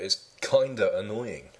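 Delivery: put-on transatlantic "kinda", lingered over; mock American "kinda". Shown as a demonstration. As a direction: stretch "kinda" slowly, ending in a loose uh. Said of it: "he will say "kinda".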